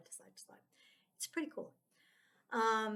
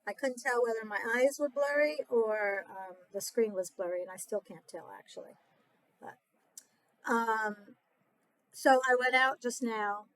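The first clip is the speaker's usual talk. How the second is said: talking while chewing gum; words around a wad of gum; 4 dB louder than usual. Real, not acted. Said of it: "Let me get rid of my gum".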